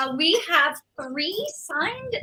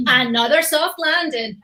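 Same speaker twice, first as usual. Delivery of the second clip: slow, deliberate game-voice line; quoting his own game line, slow and firm; character catchphrase; 3 semitones higher, 6 dB louder than usual. Shown as a demonstration.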